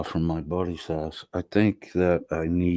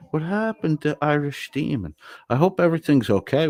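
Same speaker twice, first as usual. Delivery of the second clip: worried surprise; 9 semitones higher than usual. Real, not acted. Worried about absent streamer.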